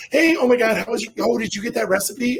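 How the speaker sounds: breezy small talk, imitating the other women; lightly voiced chatty women. Women chatting to each other during Pilates, lightly imitated.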